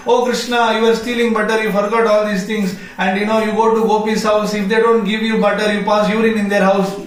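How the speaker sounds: high, running stream of exclamations; excited outcry. Acted. The speaker recalling Krishna's pranks, crying out excitedly. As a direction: blurt it out, carried away.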